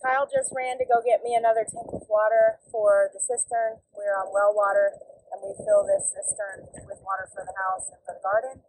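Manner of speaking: talking over tractor noise; loud engine in background; tractor rumbling behind. Real, not acted. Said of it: "I'm sorry for the tractor noise in the background".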